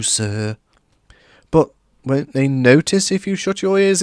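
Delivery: high elf voice, shuddering; frightened little house elf; lightly voiced anxious elf; fearful elf. A narrator's reading. Dobby explains.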